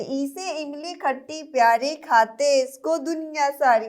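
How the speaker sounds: sing-song nursery rhyme; poem recital. Acted. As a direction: recite the rhyme for small kids. (बच्चों के लिए लय में कविता)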